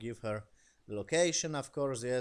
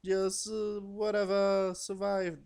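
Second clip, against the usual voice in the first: mock urgent shout; 10 semitones higher, 6 dB louder, slower than usual. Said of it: "they were like".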